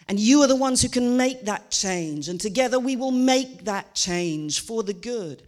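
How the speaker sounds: rally the crowd like a stump speech; rousing politician. Retold or imitated. Comedian mocking a politician promising change to voters, rousing speech. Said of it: "a politician who's talking about change".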